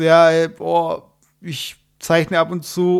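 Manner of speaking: slow, drawn-out fake nonchalance; downplay it lazily; fake casual. Imitating faked nonchalance.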